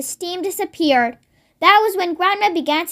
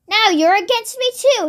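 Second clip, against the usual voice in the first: put-on higher, aggrieved old woman, mildly raised; indignant shout; 5 semitones higher than usual. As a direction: accuse her daughter, hurt and cross. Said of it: "shouted Grandma".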